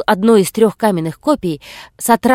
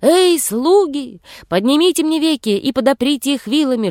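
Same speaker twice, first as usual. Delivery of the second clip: giant shouting; 6 semitones higher than usual. A narrator's reading. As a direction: bellow for the servants. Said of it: "Избададен же вскричал".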